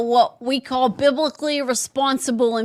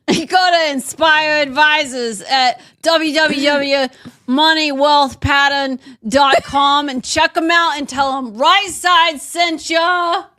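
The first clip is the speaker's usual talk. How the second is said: shouted ad read; 3 dB louder than usual. Acted.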